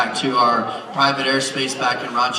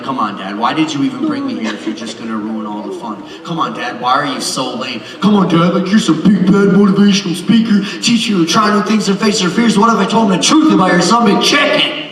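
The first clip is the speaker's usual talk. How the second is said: whiny daughter; 4 semitones higher, 4 dB louder than usual. Retold or imitated.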